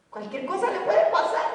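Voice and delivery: "puede" said through a chuckle; a joking, amused take with a laugh on "puede". Shown as a demonstration.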